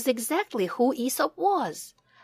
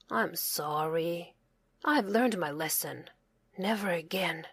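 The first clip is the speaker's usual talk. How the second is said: remorseful; 4 semitones lower, 6 dB quieter than usual. A narrator's reading. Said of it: "said Sam".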